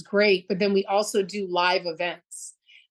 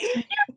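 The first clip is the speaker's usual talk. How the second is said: very high wordless squeal, acted out; imitated excited kid. Same kid speeding round the corner, mimicked excited squeal. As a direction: mimic a thrilled child's little squeal. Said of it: "it's like the veins are popping out".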